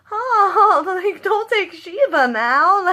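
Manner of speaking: half-laughing, half-crying plea; mock anguished cry. Fan wailing at the screen as Shiva dies, laughing and crying. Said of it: "I was like".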